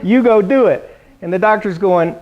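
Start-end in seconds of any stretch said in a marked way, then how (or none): 0.0-1.0 encouraging son. Retold or imitated. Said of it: "I'm going".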